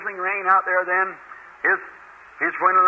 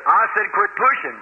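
level threat from a big man; firm warning. Retold or imitated. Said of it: "laid his hand on my shoulder and said".

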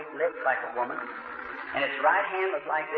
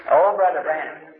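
repeating the called-out name, a bit louder; the remembered holler of his name; echoed hollering; 5 dB louder than usual. Retold or imitated. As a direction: recall the holler as it rang in his head. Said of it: "I heard somebody hollering".

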